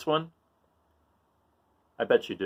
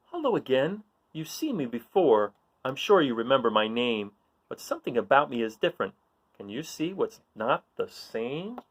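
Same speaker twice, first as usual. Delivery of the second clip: reading riddle aloud. Acted. Reads owl riddle to children.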